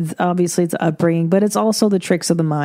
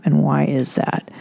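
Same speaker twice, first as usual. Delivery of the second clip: whispered; 5 semitones lower than usual. Acted. Rhetorical question whispered.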